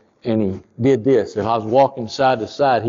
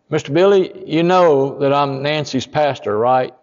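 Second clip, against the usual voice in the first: urgent plea; 4 semitones higher than usual. Retold or imitated. Pastor confronts dying man.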